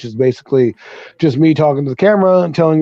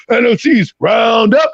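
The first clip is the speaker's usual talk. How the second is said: slower careful retry, raised pitch; second try; 6 semitones higher, slower than usual. Shown as a demonstration. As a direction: try the title again carefully. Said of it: "let me try that again".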